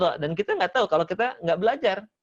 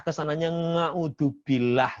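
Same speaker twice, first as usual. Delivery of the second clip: Javanese ain as nga; slower than usual. Retold or imitated. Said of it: "huruf ainnya suka jadi nga".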